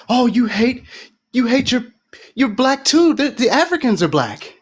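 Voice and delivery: high, sneering mock of an accuser; mocking whine. Mimicking Democrats accusing him, high mocking whine. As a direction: parrot them with a sneer.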